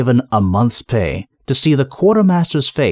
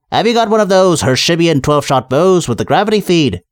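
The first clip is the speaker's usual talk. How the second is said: mild snap; 5 semitones higher than usual. Acted. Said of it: "he snapped".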